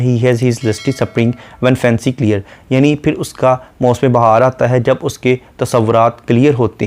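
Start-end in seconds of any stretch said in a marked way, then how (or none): 0.0-2.4 slow, measured reading of a poem line; slow poetic recital; poem recitation. Shown as a demonstration. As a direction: recite the verse slowly, line by line. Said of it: "जैसा कि poet कहता है".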